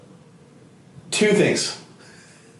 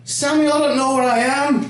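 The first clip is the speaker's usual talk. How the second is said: put-on high, lost old-lady voice; Shrek-like Irish granny; 9 semitones higher than usual. Grandson imitates confused grandma with dementia, high granny voice. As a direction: sound sweetly confused. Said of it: "she sounded like Shrek".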